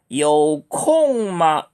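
very slow, careful tones; slow model phrase. Shown as a demonstration. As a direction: demonstrate it slowly. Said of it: "이렇게 읽으세요".

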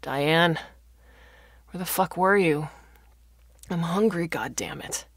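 mild gruff shout. A narrator's reading. Confused hungry father calling for his wife, understated shout. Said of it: "her father shouted".

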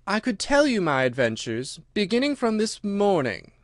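mildly timid, pitch lifting; a little timid. A narrator's reading. Alice offers her adventures, a little timid. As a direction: offer it a touch hesitantly. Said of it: "said Alice a little timidly".

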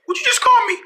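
indignant. Pretend. Offended by being called Emma.

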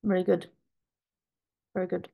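talking while chewing pastry; mouth full. Real, not acted. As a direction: say it through a mouthful of tart. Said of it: "with my mouth full".

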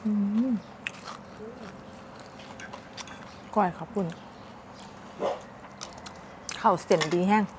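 chewing while talking; speaking between bites; mouth full. Real, not acted. Seen 1: She put food in her mouth just before and chews while speaking.

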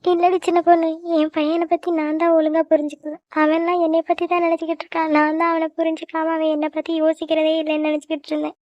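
subdued, tearful confession; weeping. Acted. Aunt regretting she misunderstood her son, weeping. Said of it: "நீ அழாத சித்தி".

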